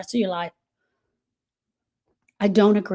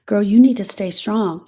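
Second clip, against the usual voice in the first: louder, insistent; bossy girl-you-need-to-stay-strong nag; mock pushy advice; 5 dB louder than usual. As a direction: push it on them. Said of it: "people tell grievers".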